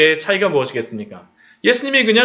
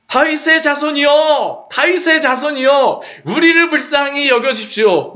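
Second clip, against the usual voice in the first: shouting; 7 semitones higher than usual. Acted. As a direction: shout for Jesus to hear you. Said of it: "소리 지르지 않았겠습니까". (더 크게 외치는 간청)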